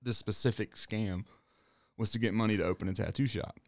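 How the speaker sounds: talking through a burp; holding back a burp mid-sentence; burpy. Real, not acted. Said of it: "So burpy, sorry".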